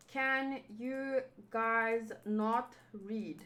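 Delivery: slow, soft gruff monster; Cookie Monster voice. Pretend. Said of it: "do a Cookie Monster voice".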